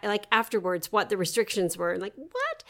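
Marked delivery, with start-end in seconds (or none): 2.2-2.6 surprised. Retold or imitated. Baffled reader's reaction.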